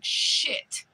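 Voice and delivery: whispering the word; whispered. Real, not acted. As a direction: hiss out the last word.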